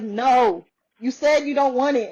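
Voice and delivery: firm no, lightly imitating a husband; a touch of put-on sternness; strict husband. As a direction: retell his refusal with mild strictness. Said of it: "being really strict about it".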